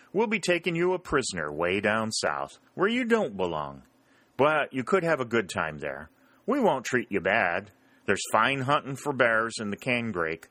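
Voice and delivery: lightly voiced Southern soldier, mock hospitable; teasing Rebel. Henderson teasing the Yankees about captivity, lightly voiced. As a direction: promise a good captivity with a grin.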